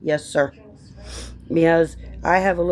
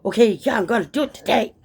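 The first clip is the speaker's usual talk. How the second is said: eager quote; 5 semitones higher, faster than usual. Retold or imitated. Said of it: "This is not like".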